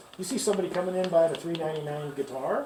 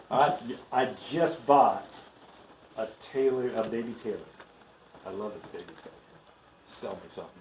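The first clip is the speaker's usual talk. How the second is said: pretend customer; 5 semitones lower than usual. Plays customer for sales role-play.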